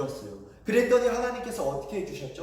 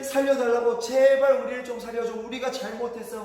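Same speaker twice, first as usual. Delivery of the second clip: raised, higher mock plea; louder acted entreaty, easing off at the end; imitated begging; 3 semitones higher, 3 dB louder than usual. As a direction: beg for mercy as a storyteller would. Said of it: "막 살려달라고 이렇게 막 애원을".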